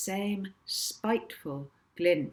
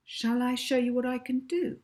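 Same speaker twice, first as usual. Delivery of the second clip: Molly suggesting; 7 semitones higher, 4 dB louder than usual. Acted. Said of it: "suggested Molly".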